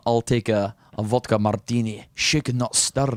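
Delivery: lightly Scottish Bond, ordering; Scottish Bond accent. Shown as a demonstration. Host as Bond ordering at the bar, light Scottish accent. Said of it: "you do the accent much better".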